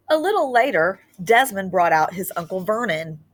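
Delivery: put-on lively read-aloud storytelling to children; story narration. A narrator's reading. Teacher reading a Christmas book to her class, expressive narration.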